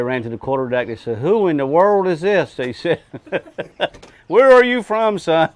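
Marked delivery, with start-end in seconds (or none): 1.2-2.6 surprised. Retold or imitated. Retold crew reaction. 4.3-5.5 surprised. Retold or imitated. Retold crew question.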